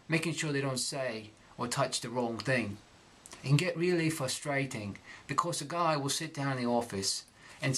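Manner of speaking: reading in Cockney accent. Shown as a demonstration. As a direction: read the letter in Cockney. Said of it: "I'm gonna read this text".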